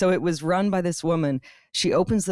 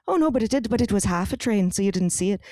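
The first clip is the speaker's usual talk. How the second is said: put-on Irish accent; 2 semitones higher, faster than usual. Railway worker explaining away a missed train, in an Irish accent. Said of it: "I'm doing a full Irish accent".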